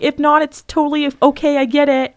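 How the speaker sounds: high, meek reassurance; accommodating text reading. Retold or imitated.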